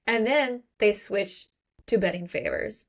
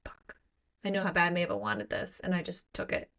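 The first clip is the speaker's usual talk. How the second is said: guilty hush; 2 semitones lower, 6 dB quieter than usual. Retold or imitated. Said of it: "She's like".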